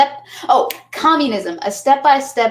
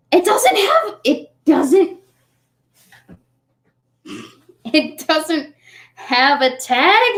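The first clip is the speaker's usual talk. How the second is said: high silly voice; 7 semitones higher, much slower than usual. Pretend. Checking coat, high odd voice.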